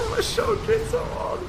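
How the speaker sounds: high, loud cheer with a laugh; real excited whoop. Real, not acted. Streamer cheers his hit in a boss fight, real excitement.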